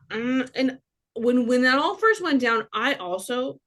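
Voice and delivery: talking while chewing gum. Real, not acted. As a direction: speak around a wad of gum. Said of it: "I'm chewing gum".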